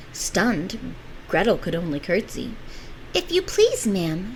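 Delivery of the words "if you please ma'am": sweet. Acted. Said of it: "she said as sweetly as she could".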